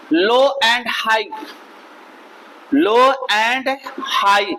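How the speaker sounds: "लो and high" drawn out slowly; low-and-high intonation. Shown as a demonstration. Teacher explaining intonation to friends, slow illustrative delivery. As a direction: spell out "लो and high" as tone movement. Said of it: "intonation माने होता है दोस्तों".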